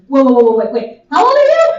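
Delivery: surprised. Retold or imitated. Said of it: "He goes".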